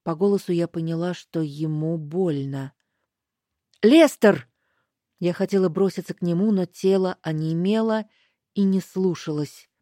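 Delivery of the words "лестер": loud terrified cry, higher; scream his name. Acted. Героиня кричит Лестеру, видя его боль, громко. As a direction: cry out in fear for him.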